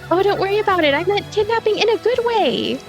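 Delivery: high-pitched, playful character voice; carefree girl, breezy reassurance. Acted. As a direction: wave the worry away in a high, lilting voice.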